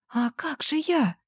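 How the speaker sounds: high, soft, slow tearful plea; crying. A narrator's reading. Girl weeping as her boyfriend leaves. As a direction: ask it while weeping. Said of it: "Она плакала".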